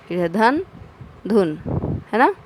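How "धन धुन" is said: "धन" with short a, then "धुन" with short u; contrasting vowel sounds. Shown as a demonstration. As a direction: set "धन" against "धुन" clearly. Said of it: "बोलिए और अंतर समझिए".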